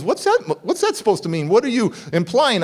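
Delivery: retold defensive questioning; retold upset. Father challenges the warning about his son, mildly upset. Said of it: "getting upset at me".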